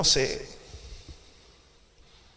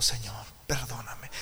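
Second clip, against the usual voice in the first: soft whispered plea for forgiveness; weeping plea; 3 semitones lower, 5 dB quieter than usual. Acted. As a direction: whisper it as if in tears. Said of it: "Tomás comenzó a llorar".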